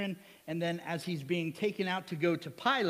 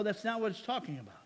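normal talking voice

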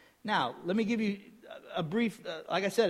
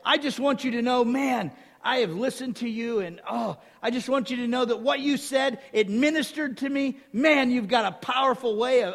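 high, loud, mildly hammed-up gushing; gushing praise; 7 semitones higher, 5 dB louder than usual. Man telling the evangelist it ministered to him, gushing. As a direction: imitate an earnest admirer pouring out thanks. Acts out a grateful admirer's praise.

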